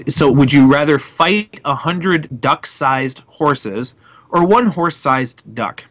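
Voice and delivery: slow, deliberate question; mock formal reading. Shown as a demonstration. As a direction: read it out slowly and gravely. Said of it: "repeat the question".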